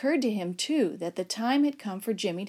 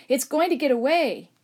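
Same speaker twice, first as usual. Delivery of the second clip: urgent plea; 5 semitones higher, 6 dB louder than usual. Acted. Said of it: "Father begged".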